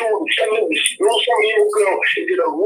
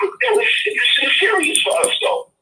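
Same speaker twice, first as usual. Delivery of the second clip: excited; 3 semitones lower than usual. Real, not acted. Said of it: "I'm excited, so I'm gonna let me calm down".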